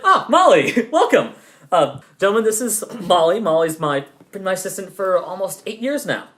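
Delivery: the hearty boss showing off his assistant; jovial boss. Acted. Boss proudly introducing Molly to the gentlemen, booming and cheerful.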